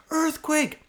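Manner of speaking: high, sharp yell of "Earthquake!"; panicked wife crying out earthquake; yelled warning. Retold or imitated. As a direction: shout it like the ground just moved.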